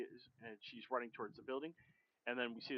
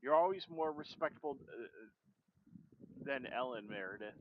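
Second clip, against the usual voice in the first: voicing the mother; slower than usual.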